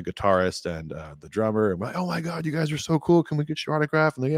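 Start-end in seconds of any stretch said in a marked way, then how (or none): 2.0-4.3 high, breathless fangirl gush; imitating a starstruck fan asking for an autograph. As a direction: gush over them like a starstruck teen. Teen fans gushing at band.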